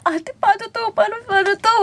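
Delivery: high, frightened, crying plea to the friend; panicked plea. Retold or imitated. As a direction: beg for help in panic. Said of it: "Sabi namin". (takot na pakiusap)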